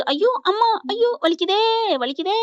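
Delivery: retold agony, voice lifted high; acted cry of pain. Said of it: "இப்ப ரொம்ப துடிக்குது".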